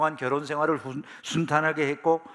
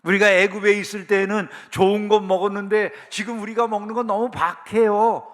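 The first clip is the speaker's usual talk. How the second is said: loud, higher-pitched protest; acted complaining; 5 semitones higher, 7 dB louder than usual. Israelites remembering food in Egypt, loudly complaining. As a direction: imitate indignant grumblers, pushing louder and higher. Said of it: "이러면서 불평한다는 거죠".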